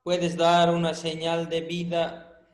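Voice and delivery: drawn-out, slow call to the spirits; teacher pretends to summon an absent student, slowly; slow mock séance. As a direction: stretch it out like a joking medium. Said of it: "esto parece sesiones de espiritismo".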